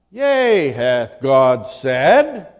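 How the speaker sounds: slow, insinuating tempter, lightly voiced; mock devil's question. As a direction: drag out the question like a sly serpent. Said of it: "the devil asks her".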